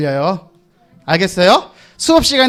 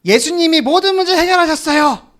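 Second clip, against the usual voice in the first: model answer; 6 semitones higher than usual. Pretend. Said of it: "뭐라고 얘기해줘야 돼".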